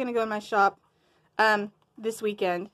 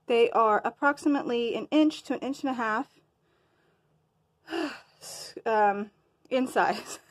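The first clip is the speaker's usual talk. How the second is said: winded, breathing between words. Real, not acted. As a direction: talk while short of breath. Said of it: "Sorry, I'm, like, winded".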